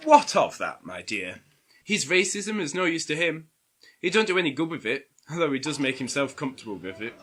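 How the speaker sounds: lightly posh, quick and proper; Kate's posh voice. Acted. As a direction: put on a posh company voice. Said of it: "who was now putting on her posh voice".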